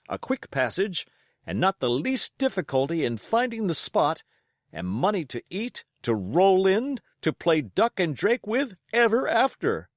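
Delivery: high, loud, tumbling with eager plans; the squire carried away by treasure dreams; excited squire. A narrator's reading. Squire plans the voyage to the doctor, excitedly.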